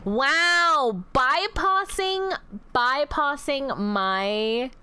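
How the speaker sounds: slow, stretched-out outraged bypassing; mock disbelief. Real, not acted. Streamer stretching out mock shock at a chat loophole. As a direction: drag it out in fake shock.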